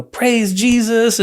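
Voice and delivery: high, drawn-out retold rejoicing; happy and excited. Mom praising Jesus over son's acceptance, happy and excited. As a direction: imitate an overjoyed mom, stretching it out. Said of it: "she was all happy and excited".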